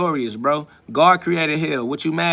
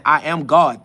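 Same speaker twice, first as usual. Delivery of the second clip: emphatic, louder declaration that falls at the end; defiant cry; 4 dB louder, slower than usual. Real, not acted. Venting to the viewers, a defiant cry. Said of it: "That is me crying".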